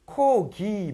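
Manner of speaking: "코, 기" split into two drawn syllables, first consonant airy; strict phonetic pronunciation. Shown as a demonstration. Teacher showing students the exact sounds, strict pronunciation of "코, 기". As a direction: say "코, 기" with a voiceless k, then a voiced g. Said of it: "얘를 엄밀하게 발음하면".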